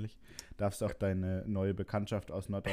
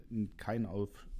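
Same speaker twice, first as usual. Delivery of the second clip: swallowed wrong mid-sentence; words breaking off from choking; choking on a drink; slower than usual. Real, not acted. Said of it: "oh, ich hab mich verschluckt".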